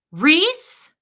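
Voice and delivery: a high, loud call across a parking lot with a rising end; calling out a name. Retold or imitated. A lady calls across the gravel lot, high and loud. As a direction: call her name from far off.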